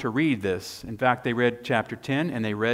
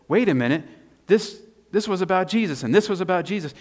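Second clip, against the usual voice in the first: sudden realization; 7 semitones higher, 3 dB louder than usual. Retold or imitated. Acts disciples' sudden realization.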